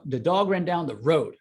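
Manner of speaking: "dog" stressed again in a plain run; weight on "dog". Shown as a demonstration. Coach repeating the sentence with "dog" stressed. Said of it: "the emphasis on any given word".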